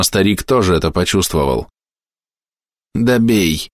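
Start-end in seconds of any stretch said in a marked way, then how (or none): 2.9-3.7 toothless mumble. A narrator's reading. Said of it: "прошамкал он".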